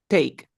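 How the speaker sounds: "take" pronounced clearly as teyk; "take" with long A. Shown as a demonstration. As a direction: say "take" with an ay vowel. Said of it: "aquí se pronuncia como".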